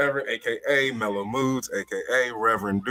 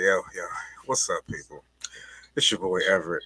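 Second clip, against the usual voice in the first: low, smooth seductive intro; sultry voice; 5 semitones lower than usual. Acted. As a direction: lay on the charm, low and smooth. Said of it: "Why he got this sultry ass voice on?".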